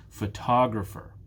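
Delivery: Photographer with the weight on TOG; stress on second syllable. Shown as a demonstration. Teacher confirming the answer, "Photographer" stressed on the second syllable "tog". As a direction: lean on "tog" in "Photographer", reduce the rest. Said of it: "It's the second syllable that is stressed".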